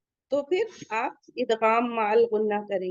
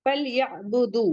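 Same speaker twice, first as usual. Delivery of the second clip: recitation; slower than usual. Shown as a demonstration. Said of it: "next आयत".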